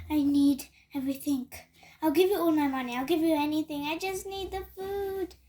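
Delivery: desperate pleading. Acted. Cat begging loudly for food.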